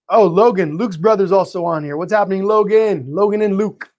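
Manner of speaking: usual speaking voice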